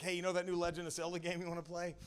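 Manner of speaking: mock-friendly, lightly lifted voice; friendlier doctor. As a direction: imitate a polite doctor breaking it casually. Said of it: "That's how she said it, a little friendlier".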